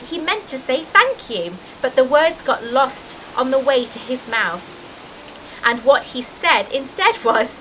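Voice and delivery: expressive, lilting storybook reading; story narration. A narrator's reading. Reader describing the giant's arrival, in animated storytelling voice. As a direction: read aloud with drama on the vivid words.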